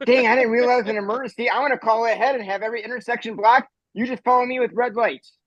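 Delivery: alarmed cop. Retold or imitated. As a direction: cop suddenly taking it seriously. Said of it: "And the cop goes".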